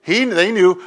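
ordinary talk

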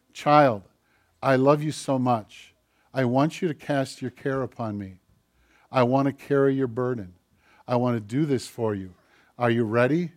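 lightly voiced loving Father, reassuring; tender God. Preacher voicing God to his child, lightly tender.

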